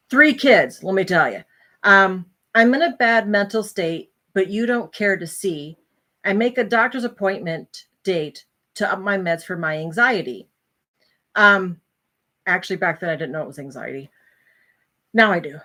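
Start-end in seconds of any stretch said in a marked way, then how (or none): 2.5-10.5 measured, rhymed verse recital; poem reading. Acted. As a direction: lightly recite your own poem. Resumes reading her poem.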